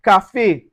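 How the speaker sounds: "café" ending in an ay sound; accented E. Shown as a demonstration. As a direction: say "café" as ka-fay, final vowel held. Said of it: "an A sound".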